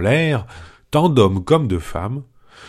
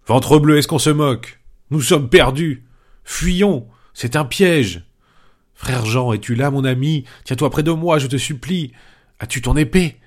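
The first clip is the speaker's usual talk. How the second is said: panicked outcry; 5 semitones higher than usual. Acted. Panurge to his companions hearing voices, panicking. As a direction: yelp it out like a man sure he's about to die. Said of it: "Panurge s'écria".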